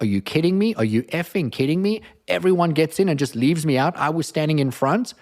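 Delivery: mock outrage at being left behind; so mad. Woman left out of the elevator, mock angry rant. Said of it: "And she's so mad".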